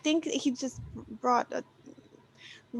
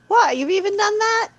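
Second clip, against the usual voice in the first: higher, louder burst of surprise; astonished; 8 semitones higher, 4 dB louder than usual. Acted. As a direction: react in amazement, pitch jumping up. Acted astonished onlooker in story.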